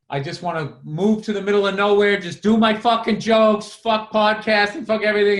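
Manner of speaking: retold meltdown. Comic retelling his pre-show meltdown to his friend, exasperated. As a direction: let the frustration build as you retell it. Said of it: "I had a total meltdown".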